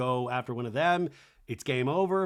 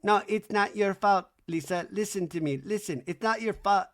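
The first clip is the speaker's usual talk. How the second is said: lightly hammed-up consoling; mock Good Will Hunting; 4 semitones higher than usual. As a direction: insist gently, movie-style. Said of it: "it's that Good Will Hunting scene".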